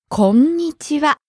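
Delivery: こんにちは lingering a little on ん; held n sound. Shown as a demonstration. Teacher confirming the pronunciation, こんにちは with a held ん. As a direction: stretch the ん slightly in こんにちは. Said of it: "You hold the n sound for a little bit".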